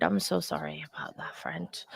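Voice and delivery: soft whispered condolence; sympathetic whisper. Real, not acted. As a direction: whisper it gently to a hurting friend. Consoling a grieving viewer.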